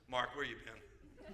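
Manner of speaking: slow, soft mock dog voice with a laugh; talking dog. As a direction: play the dog, drawn out. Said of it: "the dog says".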